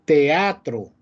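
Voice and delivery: "Teatro" with E and A as separate syllables; separated vowels. Shown as a demonstration. Teacher demonstrates a hiatus, separated vowels in "Teatro". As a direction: break "Teatro" as te-a-tro, no glide. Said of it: "la E y la A no se pronuncian juntas".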